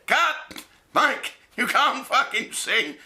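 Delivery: high-pitched mock director's interruption; mock calling out. Film crew imagined stopping Tyson's bad singing, mock calling out. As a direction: call a halt in a high, strained voice.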